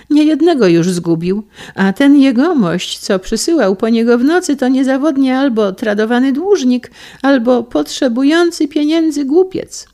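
put-on high, loud old gossip in full flow; an old lady slandering the moneylender, high and loud. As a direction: spit out his sins to the hostess.

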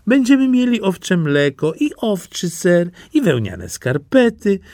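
high, admiring wife's voice; wife praising her husband, in a high voice; doting wife. Acted. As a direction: gush over your clever husband.

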